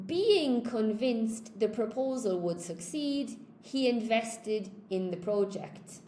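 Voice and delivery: being convinced read slowly and carefully; slow model sentence. Shown as a demonstration. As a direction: dictate it slowly to the class. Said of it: "with the participle clause".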